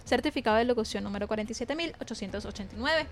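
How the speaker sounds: projected radio presenter closing read; radio sign-off. Acted. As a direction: sign the show off like a radio announcer, lifting at the goodbye. Radio host reads the closing credits.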